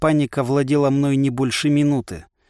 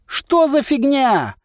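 wailing cry; 12 semitones higher, 3 dB louder, much slower than usual. A narrator's reading. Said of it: "возопил я".

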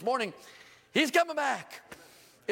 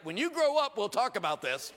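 condescending. Retold or imitated. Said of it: "I'm not saying dumb things like".

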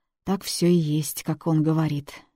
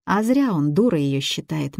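usual speaking voice

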